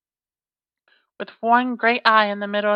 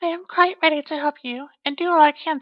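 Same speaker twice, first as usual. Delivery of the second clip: lightly voiced girl; 5 semitones higher than usual. Girl's voice in story.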